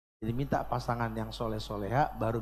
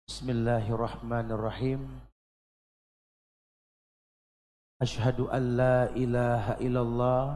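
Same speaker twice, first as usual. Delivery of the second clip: recitation. Shown as a demonstration. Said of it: "Ikuti yang saya bacakan".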